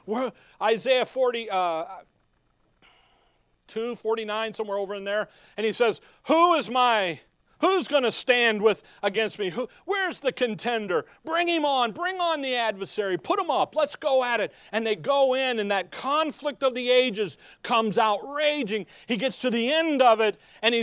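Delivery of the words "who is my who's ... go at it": defiant challenge. Acted. Christ challenging the adversary.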